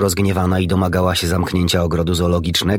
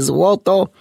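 złoto! flung out much higher and louder; a parrot's astonished cry of złoto!; amazed exclamation; 12 semitones higher, 3 dB louder than usual. A narrator's reading. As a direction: burst out with złoto! in disbelief. Parrot marvels at the gold.

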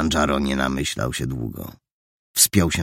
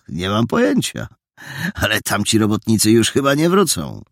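high, raised, carrying voices; calling to each other; 5 semitones higher, 5 dB louder than usual. A narrator's reading. Two young men planning to scare workers, calling out. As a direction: project the banter across the distance.

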